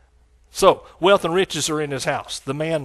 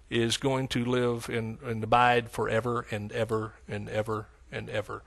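unending, dwelling; 5 semitones lower, 8 dB quieter than usual. Real, not acted. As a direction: let each ever roll quietly onward. Dwelling on endless righteousness.

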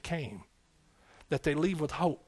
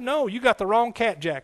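higher, louder street-slang brush-off; slangy refusal; 6 semitones higher, 5 dB louder than usual. Retold or imitated. Young man telling God he picked wrong, loud slangy refusal. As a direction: toss it off like a young tough, loud and high. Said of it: "That's exactly what I said back then. That's the way I talk".

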